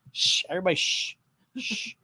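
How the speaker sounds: quiet them down like a secret; shushing. Real, not acted. Hushing viewers as Joe returns.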